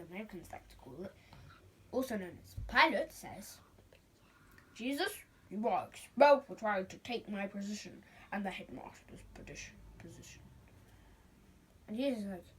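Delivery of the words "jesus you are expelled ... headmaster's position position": a hint of a stern official, fading down; stern principal. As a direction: pronounce the verdict. Vice principal pronounces expulsion.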